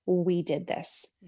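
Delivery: slow, stressed "We did this"; proud we. Shown as a demonstration. Stress on "We", slow. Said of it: "assume that identity".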